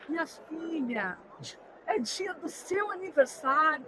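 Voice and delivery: fala terna, com a primeira chamada arrastada; enlutada carinhosa. Retold or imitated. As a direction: imite de leve um consolo materno. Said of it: "Se aproxima uma enlutada". (consolo terno, imitado de leve)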